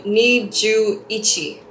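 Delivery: ni ju ichi said a bit slowly, each part clear; string ni ju ichi together carefully; careful learner's ni ju ichi; careful Japanese. Shown as a demonstration. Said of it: "you would go".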